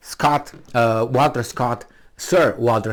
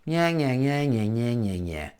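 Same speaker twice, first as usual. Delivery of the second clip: nonsense babble, dropping away softer; mocking gibberish nya-nya; 5 dB quieter than usual. What intellectual talk sounds like to them, mocking gibberish. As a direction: imitate meaningless yammering. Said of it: "What you said for them is".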